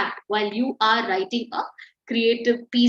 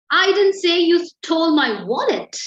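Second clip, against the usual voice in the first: angry; 4 semitones higher, 4 dB louder than usual. Shown as a demonstration. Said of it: "angry tone".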